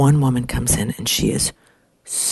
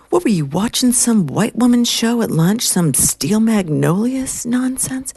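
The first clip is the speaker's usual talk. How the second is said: no-BS secretary; 9 semitones higher than usual. Retold or imitated. Secretary teasing the crying women, no-nonsense. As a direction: imitate a sassy no-nonsense put-down. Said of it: "she's like, no B S".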